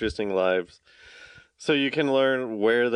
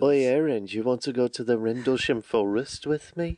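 put-on British accent. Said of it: "we just did every dialect".

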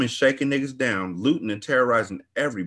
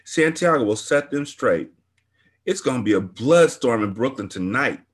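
excited gossip; 5 semitones higher than usual. Acted. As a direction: ramble on like it's a big fight. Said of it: "She acted excited".

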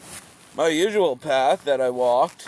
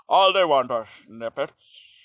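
mock nobility; 8 semitones higher than usual. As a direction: sneer down at the peasants. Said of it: "the nobility will be like".

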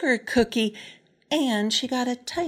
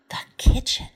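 gasping delight; 5 semitones higher, 5 dB louder than usual. Acted. Matilda's delighted gasp.

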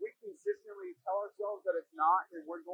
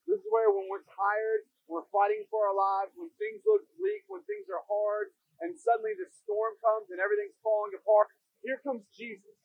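preaching; 4 dB louder than usual. Acted. Building sermon climax.

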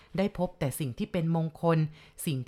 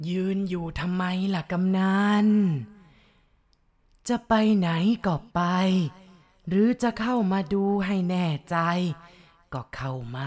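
gruff ghost voice. Acted. Ghost head daring the chief to approach, taunting gruff voice. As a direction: dare him to come closer. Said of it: "มีเสียงห้าวๆถามมาอีก".

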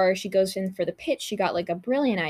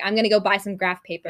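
mock scream; 6 dB louder, faster than usual. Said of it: "Like, she's screaming".

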